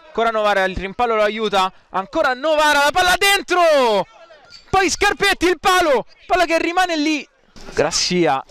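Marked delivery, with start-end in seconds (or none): 1.9-7.3 high, fast scramble call; rapid-fire call of the scramble; excited call. Real, not acted. Goalmouth scramble.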